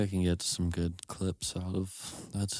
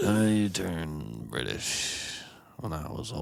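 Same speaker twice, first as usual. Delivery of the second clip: slow, light British lilt; hint of a British accent; 3 semitones lower than usual. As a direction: say it like an old Brit. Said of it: "you just switch accents".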